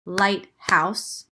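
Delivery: lighthouse split into light and house, each beat clapped; clapped syllables. Shown as a demonstration. Teacher claps out lighthouse for the class. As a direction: say lighthouse in two clear claps. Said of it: "I can clap it".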